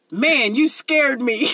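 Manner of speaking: put-on slow, drawn-out, careful quote of a kid; code-switched kid. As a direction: imitate a kid cleaning up his language, slowly. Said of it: "he trying to tell us how he code switched".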